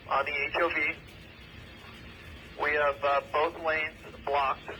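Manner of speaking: police radio. Real, not acted. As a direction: voice over a two-way radio. Radio traffic at crash scene.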